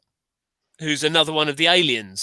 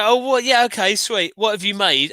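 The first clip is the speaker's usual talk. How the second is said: mock producer voice; 3 semitones higher than usual. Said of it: "And they go".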